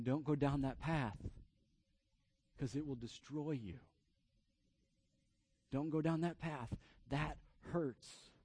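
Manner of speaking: soft, measured warning with long pauses; solemn plea. Retold or imitated. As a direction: plead gently, letting each phrase sink in. God pleading, voiced by preacher.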